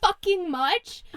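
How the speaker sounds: loud exaggerated velvet rant; mock outrage. Real, not acted. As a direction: rant like it's a tragedy. Ranting about velvet.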